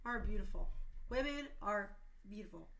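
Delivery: tearful, cracking voice; real crying. Real, not acted. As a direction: choke up as you tell them. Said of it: "I'm crying".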